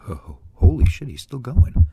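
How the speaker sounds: panicked stammer. Acted. Panicked stammer crossing the street.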